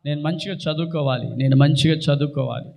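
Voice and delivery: low-pitched, plain prayer; model prayer. Shown as a demonstration. Preacher models a student's prayer for studies, low and prayerful. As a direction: pray it low, as a student would. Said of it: "ప్రార్థన చేసుకోండి".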